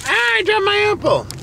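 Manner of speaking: high quick startled cry; startled yelp. Real, not acted. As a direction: yelp as the apple falls. Drops apple, startled.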